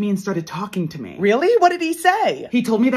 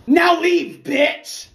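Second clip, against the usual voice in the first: angry dismissal; 6 semitones higher, 4 dB louder, much slower than usual. Acted. Bestie chases robber off.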